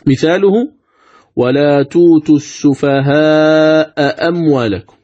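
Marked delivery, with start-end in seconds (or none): 1.4-5.0 slow measured Quranic recitation of "ولا توتوا السفهاء أموالكم"; recited slowly. Shown as a demonstration. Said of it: "لاحظ".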